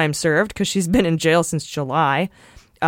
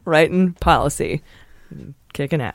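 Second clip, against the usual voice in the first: movie trailer voice. Pretend. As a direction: announce it like an epic trailer. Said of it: "sounds like a weird movie trailer".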